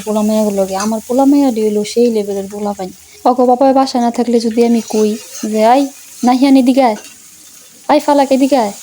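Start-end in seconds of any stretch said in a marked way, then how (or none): 5.6-8.7 raised dialect call across the house; calling the kids. Retold or imitated. Mother calling her kids in village dialect, raised voice. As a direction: call the kids over, a bit louder.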